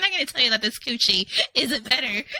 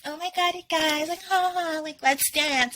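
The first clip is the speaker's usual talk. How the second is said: bright peppy performer, a touch higher; bubbly cam girl voice; 5 semitones higher than usual. Retold or imitated. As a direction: hype up the viewers cheerfully.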